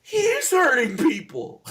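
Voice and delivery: high, slow goblin voice with a cry. Acted. Goblin complains after being shot.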